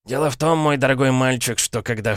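lightly voiced sly old uncle; a hint of a smug, knowing uncle. Uncle teasing nephew Dick, slyly amused. Paradine continuing.

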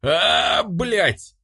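sudden high yell of frustration. A narrator's reading. The tricked mortal yells at the angel, high and sudden. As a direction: yelp it as you realise you were fooled. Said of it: "заорал я".

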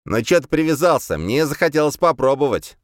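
lightly voiced demon excusing itself; self-justifying. A narrator's reading. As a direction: defend yourself with a whine of protest. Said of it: "оправдался демон".

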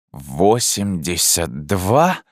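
slow, stunned groan; husband groaning, stunned by her age; groaned question. Acted. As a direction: moan the number out in disbelief. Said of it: "простонал я".

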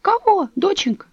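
put-on high, quavering old woman lamenting; old neighbour tells Dasha of the bodies, high and mournful; old woman's voice. A narrator's reading.

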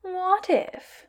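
musing with a hint of sadistic glee; idly thoughtful glee. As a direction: toy with him, lightly ominous. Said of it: "idly thoughtful, but with an ominous suggestion of sadistic glee".

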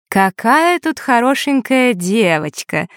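медленно, слащаво-восторженно, выше обычного; приторно восхититься девочкой; слащавая незнакомка. Acted. (светская дама, слегка озвученная)

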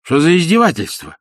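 high, loud indignant cry; indignant exclamation. A narrator's reading. Vorobyaninov exclaims at Ostap's taunt, indignant. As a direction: cry out, offended. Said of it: "воскликнул Воробьянинов".

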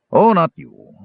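quick high loud correction; hasty. A narrator's reading. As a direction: blurt it out hastily. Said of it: "the mage said hastily".

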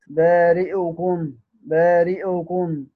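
بارئكم with the kasra on the hamza only half voiced and cut short; barely touch the kasra in بارئكم; snatched kasra. Shown as a demonstration. Teacher showing students al-Duri's snatched kasra. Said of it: "لدور أبو عمرو الاختلاس".

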